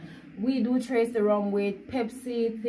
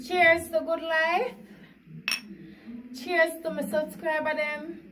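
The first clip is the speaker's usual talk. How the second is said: toast; 5 semitones higher than usual. Real, not acted. Toasting subscribers at video end.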